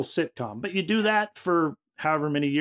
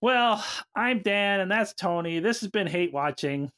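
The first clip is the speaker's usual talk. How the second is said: down outro; 2 semitones higher than usual. Real, not acted. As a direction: sign off as if let down. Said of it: "most down outro you've ever done".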